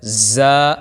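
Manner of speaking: زا said firmly, with a hard, forceful sound. Shown as a demonstration. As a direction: press زا out hard. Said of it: "اس کو سختی کے ساتھ پڑھنا ہے". (زا سختی سے)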